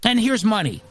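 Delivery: high, cooing mock voice of a coddling college official. Host mocking colleges that coddle students, cooing and high. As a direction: coo over them like a fussy nanny. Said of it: "a coddling culture that says".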